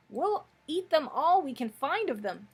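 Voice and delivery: high, loud little piglet. A narrator's reading. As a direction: pipe it up as a piglet. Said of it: "said another".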